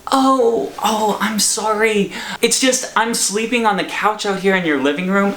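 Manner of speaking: caught red-handed. Retold or imitated. Stranger caught at the air conditioner, sheepish apology. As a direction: imitate a sheepish guy explaining himself. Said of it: "caught red-handed".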